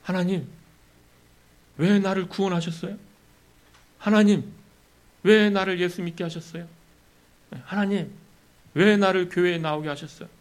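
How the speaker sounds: a believer questioning God's choices; demanding of God. Retold or imitated. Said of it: "하나님께 따져 묻는 것입니다".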